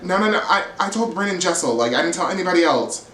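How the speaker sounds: mock-flustered backpedalling; retold flustered stutter. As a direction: imitate someone stumbling over a defensive denial.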